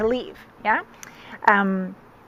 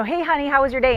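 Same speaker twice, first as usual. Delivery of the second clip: lightly voiced cheery partner, higher; a higher, light "hi honey" voice; partner's greeting; 4 semitones higher, faster than usual. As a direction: imitate a man greeting his honey. Voices the man greeting her.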